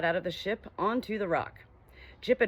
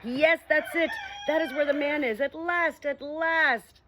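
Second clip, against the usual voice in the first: high, loud and eager; excited call back; 8 semitones higher, 4 dB louder than usual. Acted. Dog calling up to the owl, high and excited. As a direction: bark it back with relief.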